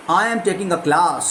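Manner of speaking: slow, leaning on the word class; stress on class. Shown as a demonstration. Teacher demonstrating stress on class. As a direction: stretch it out and hit class. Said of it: "तो यहाँ पे आपने क्लास को emphasise किया".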